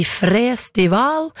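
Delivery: festival said slowly as "fres-tival" with long E; lang E. Shown as a demonstration. Host showing the festival's language trap, long E in festival. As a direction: draw out the first E in festival. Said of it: "med lang E".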